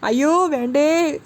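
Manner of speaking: begging in a nightmare; a husband panicking in a bad dream; wailing in sleep. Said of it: "Sachi ഉറക്കത്തിൽ നിലവിളിക്കുകയാണ്".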